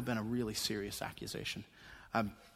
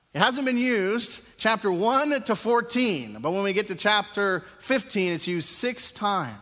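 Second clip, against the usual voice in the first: high, loud and slow, hammering the point; emphatic preaching; 9 semitones higher, 7 dB louder than usual. Real, not acted. Preacher stressing Mark's six uses, loud and slow. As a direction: drive the count home.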